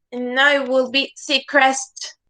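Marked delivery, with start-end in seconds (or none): 1.2-2.1 "Seacrest" with the second syllable stressed, a full CREST; wrong stress demo. Shown as a demonstration. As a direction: say "Seacrest" as sea-CREST, weight on the end. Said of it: "it is not Seacrest".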